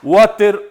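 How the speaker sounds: "Water" with a clear T and final R. Shown as a demonstration. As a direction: sound both the T and the R in "Water". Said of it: "te van a decir water". ("Water" con T clara y R final)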